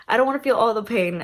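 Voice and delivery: I don't wanna feel all the pain, rattled off fast; quick repeat. Retold or imitated. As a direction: toss it off quickly. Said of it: "old school moms are like".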